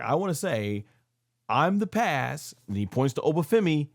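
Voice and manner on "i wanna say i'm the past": lightly voiced slow proclamation, dragging the words; a hint of a grave wrestler pronouncing his verdict; quoting Brock Lesnar. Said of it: "he goes like".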